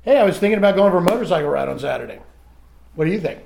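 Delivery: casual spouse ask. Retold or imitated. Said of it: "what normal people might do with that is show up in front of their spouse and say something like".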